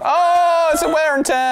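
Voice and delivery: high, loud mock Scottish Sean Connery; hammed-up Scottish film-star voice; loud mock Scottish accent for an encounter card; Sean Connery impression. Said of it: "that's not Sean Connery at all".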